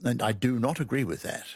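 firm, deliberate refusal; strong disagreement. Shown as a demonstration. Guest glosses the strong yeah-nah, firmly disagreeing. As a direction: state the disagreement squarely. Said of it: "Or it can be quite strong".

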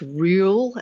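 "rule" said as ryool; old yod pronunciation. Shown as a demonstration. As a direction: slip a y before the vowel in "rule". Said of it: "which were, uh, pronounced".

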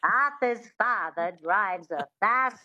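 witchy twang on a Mid-Atlantic accent; light twang demo. Shown as a demonstration. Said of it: "that twang is really important".

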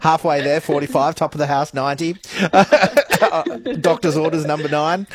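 calling bingo numbers with a laugh; bingo caller. Shown as a demonstration. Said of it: "I'm a bingo caller from way back".

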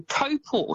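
Taupo said with a long rounded "oh" in the first syllable; correct Maori pronunciation. Shown as a demonstration. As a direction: say Taupo as "TOE-paw". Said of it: "Taupo is actually pronounced".

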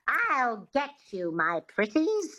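slow, lightly witchy demo of the line; witch twang. Shown as a demonstration. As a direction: sound it with a touch of witchy twang. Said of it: "Just say that".

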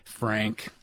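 name said low and level; low, matter-of-fact introduction; low-pitched name. Real, not acted. Introducing caller, then calling him.

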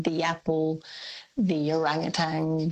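"the" said as "thee" before "apple" and "orangutan"; the before a vowel. Shown as a demonstration. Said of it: "you can hear me saying".

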